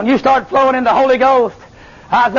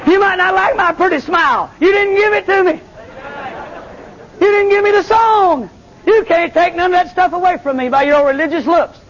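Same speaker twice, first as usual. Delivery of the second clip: preaching at full force; 8 semitones higher than usual. Acted. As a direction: preach it out with shouting joy.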